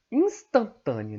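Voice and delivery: Instantânea drawn out slowly, syllable by syllable; slow emphasis. Shown as a demonstration. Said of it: "O que que a gente quer em velocidade instantânea?".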